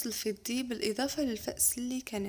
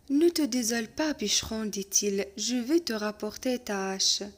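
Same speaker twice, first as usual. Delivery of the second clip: lecture de conte; 3 dB louder, much slower than usual. Acted. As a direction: lecture lente et posée d'un conte. Reading the tale aloud. (maître qui lit un conte lentement à sa classe)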